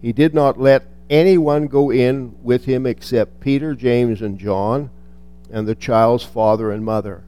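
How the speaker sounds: measured Bible reading; scripture reading. Acted. Preacher reading Luke to the congregation, measured and reverent. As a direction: read the passage with reverence. Reads the Gospel passage aloud.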